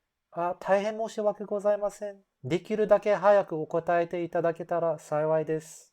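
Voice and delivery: humble customer-service apology, quick; bow deeply with the voice; strong formal apology. Shown as a demonstration. Staff apologizing to a customer, humble and formal. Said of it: "a stronger form of apology".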